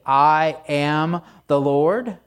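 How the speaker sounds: "I am the Lord" said slowly, word by word; emphatic declaration. Retold or imitated. God stopping to remind Israel who speaks, "I am the Lord" slow and emphatic. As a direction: stop and declare "I am the Lord", each word stretched. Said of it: "had to kind of stop".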